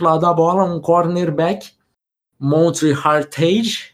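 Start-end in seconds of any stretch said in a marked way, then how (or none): 2.9-3.9 Hartage ending like English "tage", rhyming with stage; English-style pronunciation. Shown as a demonstration. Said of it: "não sei como se pronuncia".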